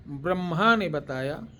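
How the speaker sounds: slow, measured and firmly projected; slow dictation. Shown as a demonstration. Teacher dictating a mantra line to listeners, slow dictation. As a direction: stretch it out for someone writing it down. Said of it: "धीरे धीरे बोल रहा हूँ".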